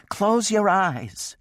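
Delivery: high, slow, drawn-out wail. A narrator's reading. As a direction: wail it in distress. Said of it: "she wailed".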